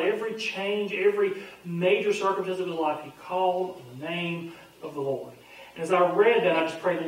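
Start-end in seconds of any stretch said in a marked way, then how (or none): 3.0-5.3 soft. Acted. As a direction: let it settle gently. Quiet repeat of the verse.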